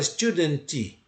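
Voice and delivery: "student" said as "studentchi", with an added I; wrong final vowel. Shown as a demonstration. Teacher shows learners what to avoid, added final vowel. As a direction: tack an "ee" onto the end of "student". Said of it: "Eu não posso falar".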